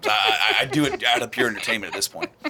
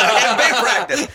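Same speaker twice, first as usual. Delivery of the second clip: laughing; 10 semitones higher, 6 dB louder than usual. Retold or imitated. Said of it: "He's like".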